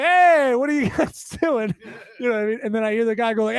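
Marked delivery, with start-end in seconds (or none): 0.0-1.7 higher and louder shout to the workers; calling out. Retold or imitated. Neighbor calling out to the water workers, loud and high. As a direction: hail the workers from a distance. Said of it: "who was like".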